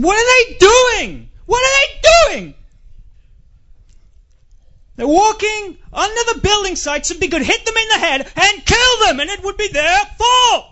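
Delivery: hammed-up furious American yelling, very high; really angry. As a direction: imitate an enraged stranger ranting at the top of the voice. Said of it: "he was really angry".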